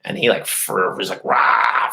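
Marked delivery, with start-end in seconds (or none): 1.2-1.9 short imitated roar; mock freak-out roar. Man freaking out on the phone before hanging up, mock roar. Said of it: "freaked out on the phone".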